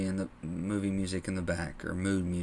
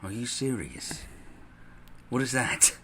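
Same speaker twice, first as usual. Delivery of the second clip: disbelief; 3 semitones higher than usual. Retold or imitated. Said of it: "and they're like".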